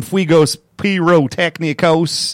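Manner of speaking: fuegos pirotecnicos in a bad southern accent. Shown as a demonstration. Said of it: "a bad southern accent to say that word".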